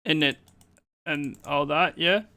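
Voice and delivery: lazy mock British slang, drifting back; bad British impression. Streamer teasing chat with a bad British accent. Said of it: "That's the worst Brit impersonation".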